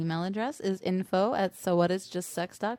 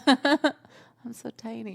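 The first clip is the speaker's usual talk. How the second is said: slow giggly mock-innocent voice; laughing coy voice; 4 semitones higher, 4 dB louder, much slower than usual. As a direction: giggle it out coyly.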